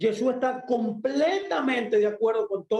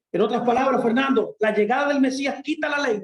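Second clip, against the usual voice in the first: louder, raised challenge from a listener; questioning listener; 2 semitones higher, 4 dB louder, faster than usual. Acted. Listener challenging Fernando about the law, questioning. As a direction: put the doubter's question to the teacher.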